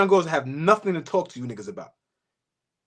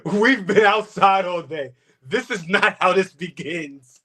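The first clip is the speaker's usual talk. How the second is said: retelling through laughter; 2 semitones lower, slower than usual. Retold or imitated. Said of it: "He said".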